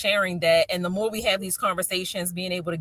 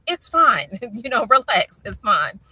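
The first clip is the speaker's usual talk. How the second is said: dismissive reassurance; 4 dB louder than usual. Retold or imitated. Mother telling her upset son not to worry, dismissive reassurance. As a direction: brush off the worry with a light laugh.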